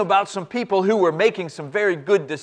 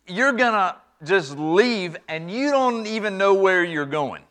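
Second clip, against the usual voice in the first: exasperated father. Acted. Father arguing with son.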